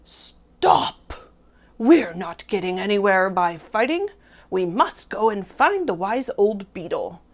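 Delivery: loud commanding call for order; chief frog shouting. A narrator's reading. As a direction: shout "stop", then carry on forcefully as leader. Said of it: "the chief frog shouted out".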